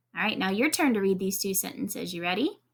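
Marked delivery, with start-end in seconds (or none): none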